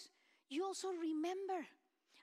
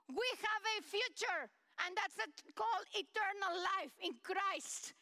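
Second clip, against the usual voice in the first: impassioned preaching; 3 semitones higher than usual. Acted. Preaching at full force.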